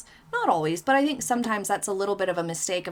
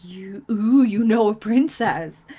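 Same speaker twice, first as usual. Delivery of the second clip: breathless, impressed whisper then louder; awed gasp; 6 dB louder, slower than usual. Pretend. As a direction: gush in hushed awe. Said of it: "hoping reactions like".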